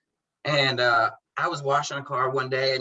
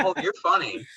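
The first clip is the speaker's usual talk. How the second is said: amused chuckle through the words, a bit higher; laughing; 8 semitones higher than usual. Retold or imitated. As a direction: laugh it out, tickled by the joke. Client laughing at a sarcastic joke.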